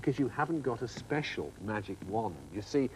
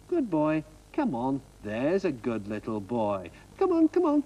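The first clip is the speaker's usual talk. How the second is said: calling a pet; 4 dB louder than usual. Acted. Coaxing a match like a dog.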